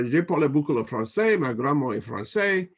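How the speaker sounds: playful French spoken with a Louisiana Southern accent. Real, not acted. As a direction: show off your French with a Louisiana twang. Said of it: "a little Louisiana in there with a Southern accent".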